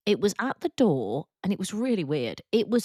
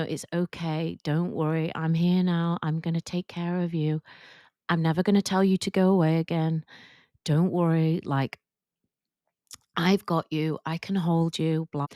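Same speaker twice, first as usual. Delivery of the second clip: maternal comfort. Retold or imitated. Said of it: "I felt kind of quite maternal towards it".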